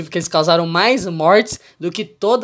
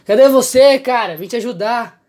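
chamando alto; 7 semitones higher, 6 dB louder than usual. Retold or imitated. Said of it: "ele gritou".

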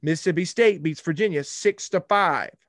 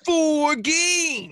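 emphatic; 12 semitones higher, 4 dB louder than usual. Real, not acted. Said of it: "insists over Ryan".

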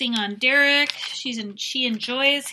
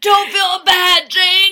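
choked mock reassurance; 9 semitones higher, 12 dB louder, slower than usual. Voicing the sick man.

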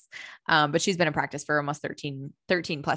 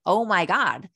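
mock hysterical realization; 4 semitones higher, 4 dB louder, slower than usual. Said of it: "hysterical laughing and being like".

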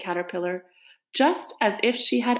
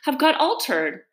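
slightly timid admission, pitched higher; 5 semitones higher, 3 dB louder than usual. Acted. Alice explains her muddled recital to the caterpillar, timid. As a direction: own up with a touch of shyness. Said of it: "said Alice timidly".

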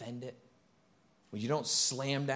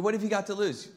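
"what have you got to lose?" pushed faster, higher and louder; emphatic question; 9 semitones higher, 5 dB louder, faster than usual. Shown as a demonstration. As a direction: hit "what" hard and challenge them. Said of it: "I mean".

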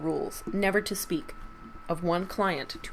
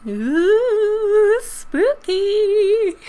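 much higher, louder hammed-up ghostly ooh; spooky voice; 11 dB louder, much slower than usual. Host closing the ghost story for listeners, hammed-up spooky. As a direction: ham it up like a Halloween spook.

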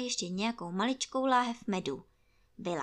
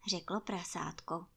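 usual speaking voice

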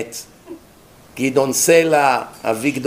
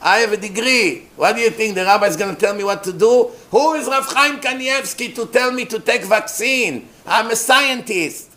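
higher-pitched mock outrage at being told; self-important protest, pitched up; indignant liberal congregants; 6 semitones higher than usual. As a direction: imitate someone flaunting credentials. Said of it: "That's how they talk".

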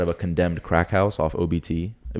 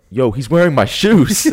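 retold shock; 8 semitones higher, 10 dB louder, slower than usual. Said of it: "I look down and I'm like".

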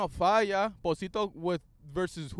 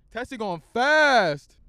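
higher, louder and slow; slow loud call; 6 semitones higher, 11 dB louder, slower than usual. Pretend. Calling out speeding Tesla drivers, a slow loud taunt. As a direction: stretch it out like a taunt.

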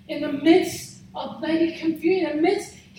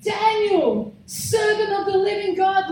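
understated acted cry of anguish; anguished call; 4 semitones higher, 3 dB louder than usual. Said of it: "in a voice of anguish".

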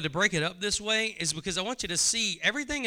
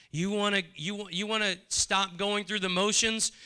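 ordinary talk

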